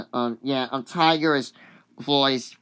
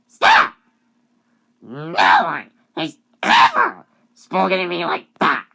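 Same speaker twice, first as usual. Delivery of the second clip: high-pitched mock tirade, building louder; hammed-up furious rant in a high voice; angry; 5 dB louder than usual. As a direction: tell him off as an offended character. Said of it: "and she gets all angry".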